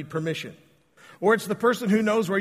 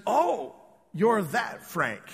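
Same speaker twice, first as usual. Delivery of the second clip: knowing remark; 4 semitones higher, much slower than usual. Retold or imitated. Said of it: "She said".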